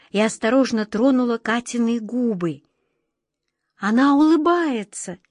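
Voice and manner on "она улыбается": quiet puzzlement. Acted. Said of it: "тихо и недоумённо сказала Ниточка".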